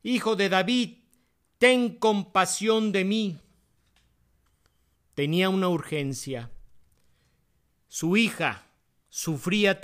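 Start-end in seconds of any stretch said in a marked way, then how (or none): 0.0-3.4 higher-pitched, measured plea; mild crying out. A narrator's reading. Preacher voices the mother following Jesus, mildly crying out. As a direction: call out for mercy in a raised voice. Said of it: "Clamaba diciendo".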